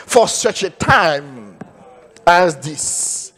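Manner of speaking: slow, solemn Bible reading in English; preacher reading the verse in English, slow and solemn; scripture reading. Acted. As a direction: lay out the verse slowly with weight.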